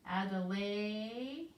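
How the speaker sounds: each part stretched out slowly; slow sounding out. Shown as a demonstration. Teacher repeats the name slowly to check. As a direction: sound out Adelaide slowly again. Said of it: "the short sound and its name".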